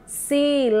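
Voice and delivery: teacher splitting "silábica" into syllables. Shown as a demonstration. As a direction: separate "silábica" as si, lá, bi, cá. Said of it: "Tá separada".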